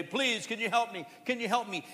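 lightly voiced pleading beggar; a hint of a beggar asking passersby for help; mild imploring plea; beggar's plea. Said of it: "they're just begging, say".

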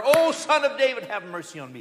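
loud plea that falls away at the end. Retold or imitated. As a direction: cry it even harder this time. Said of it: "He cries out the louder".

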